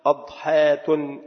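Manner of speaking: أضحاة slowly with an "a" on the hamza, ad-haatun; fatha on the hamza. Shown as a demonstration. Teacher giving the fourth variant, أضحاة with fatha, "ad-haatun". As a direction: open أضحاة on a, stretched out: "AD-haa-tun". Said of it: "بفتح الهمزة".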